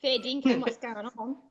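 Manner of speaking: hammed-up Australian slang greeting. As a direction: imitate a stock Aussie greeting. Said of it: "talk a lot of Australian slang myself".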